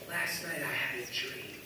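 low, slow imitation of Fergus's accent. Man begins telling his dream, in imitated Fergus's accent. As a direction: attempt Fergus's accent, softly and slowly. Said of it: "in this accent".

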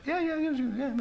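high, soft, hurried mock assent; flustered agreement. Director humours actor's request for an African costume, imitated as flustered. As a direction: imitate someone nervously saying yes in a squeaky voice.

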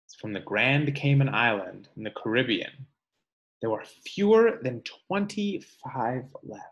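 measured read-aloud voice for a class; reading to children. Acted. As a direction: read the book aloud to kids, slowing on each animal's name. Teacher reads book aloud.

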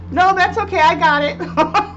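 high, then drawn out slowly at the end; grown-up kid voice. Retold or imitated. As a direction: repeat the child's line, savouring each word. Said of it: "no, no hesitation".

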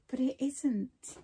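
slow whispered aside. Real, not acted. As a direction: breathe it out slowly, like a secret. Aside after praising the colours.

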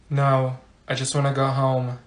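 low, soft reluctant reply; unenthusiastic mumble. Acted. Student to perky teacher on Friday, low reluctant mumble. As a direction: answer low and softly, wanting out.

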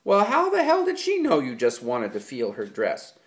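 loud, high furious scolding; angry tirade. A narrator's reading. George to Lenny about the girl incident, furious. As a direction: let the anger spill out.

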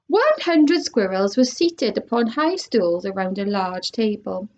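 lively storybook read-aloud; animated picture-book narration; reading to children. Acted. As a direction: read it like story time for kids. Reads a chapter aloud to children.

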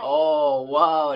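surprised. Acted. Child names favorite song.

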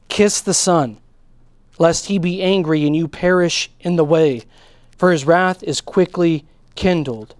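slow, deliberate reading with weighty pauses; solemn scripture reading. Acted. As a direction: read the psalm out phrase by phrase, slowly. Reads scripture aloud to congregation.

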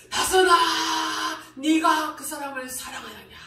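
gently voiced divine question; imitating God's voice. Preacher retelling God's second question, lightly voiced. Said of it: "이런 음성이 아니에요".

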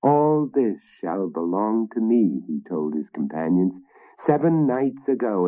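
a boastful king, a touch grand; proud king. Acted. Narrator voices the Danish king.

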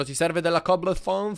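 playful lisping question; Silvestro. Pretend. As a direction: lightly lisp it like a cartoon cat. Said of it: "l'accento di Silvestro, quello".

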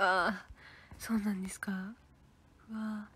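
soft whispered reply. Real, not acted. Reading a viewer's comment, whispered aside.

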